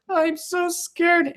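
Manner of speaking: very high, slow, whimpering mock voice of a frightened girl; hammed-up high scared whine; scared girl imitation. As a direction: squeak it out like a terrified little runner. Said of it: "She goes".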